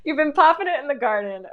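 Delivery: high, fast, amused; barely holding it together; laughing. Real, not acted. Telling viewers the garden joke, still laughing.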